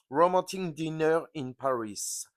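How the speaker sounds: slow English with a French accent; self-mocking English accent. Shown as a demonstration. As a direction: put on your "magnificent" English accent, slowly. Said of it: "avec mon magnifique accent anglais".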